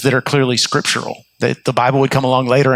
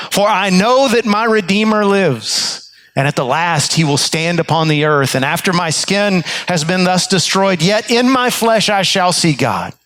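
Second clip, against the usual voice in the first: higher, proclaiming Bible recitation; scripture declaration; 4 semitones higher than usual. Retold or imitated. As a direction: declare the verse with conviction. Reciting Job's declaration of faith.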